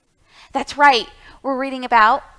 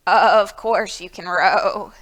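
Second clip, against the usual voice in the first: put-on old goat; 3 semitones lower, 6 dB louder than usual. Old Goat voiced in story.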